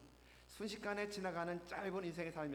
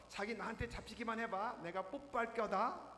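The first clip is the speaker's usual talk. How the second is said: higher, playful teasing call; playful chase; 5 semitones higher than usual. Retold or imitated. Seoul boyfriend chases his girlfriend, playful call. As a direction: chase her with playful glee. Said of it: "재미나게 뛰어 쫓아가면서".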